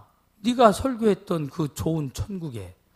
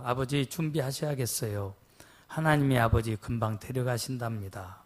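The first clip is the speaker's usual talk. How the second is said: quiet tender words; 3 semitones lower, 8 dB quieter than usual. Retold or imitated. Kneeling at dying father's bedside.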